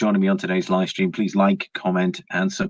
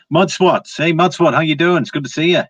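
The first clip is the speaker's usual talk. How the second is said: higher and louder, an eager hello to a viewer; excited greeting; 9 semitones higher, 4 dB louder than usual. Real, not acted. Greeting a viewer in live chat.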